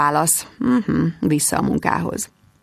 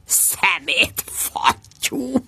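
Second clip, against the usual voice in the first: muttered curse; 5 dB quieter, much slower than usual. Acted. Muttering after the intercom.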